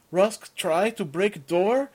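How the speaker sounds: lightly voiced simple giant; simple big guy. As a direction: offer help eagerly, slowly. Simple-speaking big guy Rusk.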